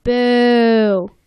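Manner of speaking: sing-song cheer that ends in a booed mock; mock jeer. SpongeBob leading a boo at Squidward, mock jeer. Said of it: "SpongeBob's like".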